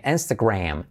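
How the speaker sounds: "Instagram" with final a close to e; A near E. Shown as a demonstration. Teacher showing the vowel, a-as-e in "Instagram". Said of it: "A casi como una E".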